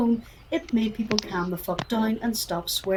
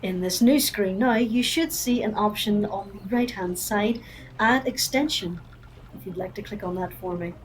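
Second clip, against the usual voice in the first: customer service voice. Acted. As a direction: talk them through it calmly. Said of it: "I like your customer service voice".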